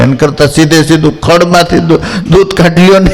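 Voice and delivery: laughing through the punchline. Real, not acted. Telling the cow and grass joke to the listeners, laughing. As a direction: chuckle as the joke lands, pitch climbing.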